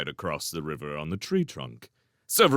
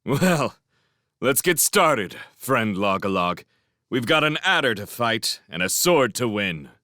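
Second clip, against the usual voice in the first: relieved, eager; 3 semitones higher than usual. Acted. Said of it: "laughed in open relief".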